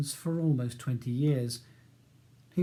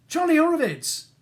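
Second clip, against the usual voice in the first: loud, high excited call; shout; 6 dB louder than usual. A narrator's reading. Prisoner hailing the lawyer through the bars, loud shout. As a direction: yell the full name in delight. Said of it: "he shouts".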